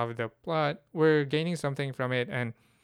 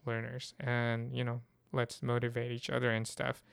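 tired, worn voice giving out; 4 dB quieter than usual. Real, not acted. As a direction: voice fading from overuse. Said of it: "I'm kind of losing my voice now".

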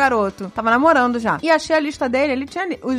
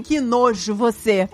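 disgusted retort; 4 semitones lower, slower than usual. Retold or imitated. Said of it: "falei assim".

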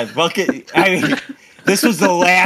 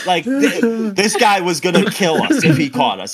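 ordinary delivery

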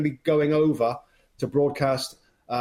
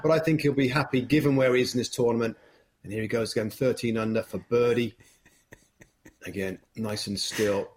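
hushed, measured golf commentary; calm TV golf call over a putt; 2 semitones lower than usual. Pretend. Colour analyst calling a clip for the hosts, hushed and measured. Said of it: "Go ahead, go ahead".

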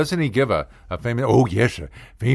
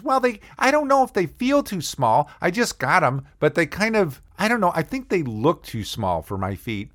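put-on higher unsure girlish voice; girlfriend; 5 semitones higher than usual. Girlfriend frets about her shoes, high unsure voice. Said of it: "she says".

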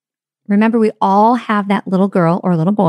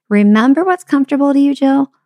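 put-on inner child; 6 semitones higher than usual. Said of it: "the other thing my inner child was doing and saying".

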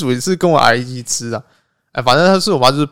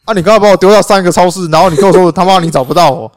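indignant retort; 3 semitones higher, 5 dB louder than usual. Retold or imitated. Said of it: "我想说".

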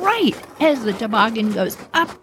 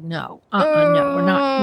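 pitched-up, insistent dad; emphatic refusal; 6 semitones higher than usual. Acted. Dad refusing another toboggan run, high and insistent. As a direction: refuse at once, voice raised in pitch.

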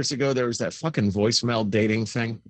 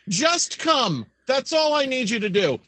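mock pleading; 8 semitones higher than usual. Pleading to the imagined girl.

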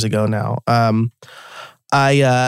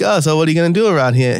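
quick, lightly imitated Boston local; Boston accent; 3 semitones higher, much faster than usual. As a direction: rattle it off with a hint of Boston accent. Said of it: "this is very stereotypically Boston".

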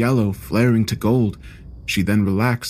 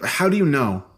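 snarled; 4 semitones higher than usual. Acted. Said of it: "I snarled at her".

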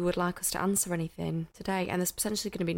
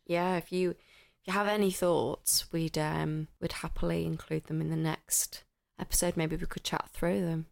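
podcast voice; 3 semitones lower than usual. Real, not acted. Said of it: "That's the podcast voice".

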